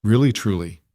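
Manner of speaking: calm, falling reassurance; warm confirmation. Acted. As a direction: gently confirm it. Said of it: "Mara confirmed".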